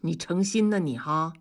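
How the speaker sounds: mock-offended jab; pretend anger. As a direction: put on a mild show of annoyance. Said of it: "假装生气". (假装生气)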